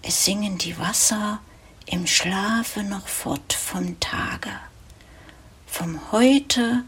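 measured poetry reading with pauses between phrases; poem recitation. Acted. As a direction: recite the evening poem line by line, letting each image settle. Recites a poem about midnight.

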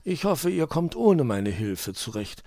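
a kindly scholar excusing himself; busy old owl. A narrator's reading. Onkel Uhu explains he must do his weather records. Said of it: "erklärte der Uhu".

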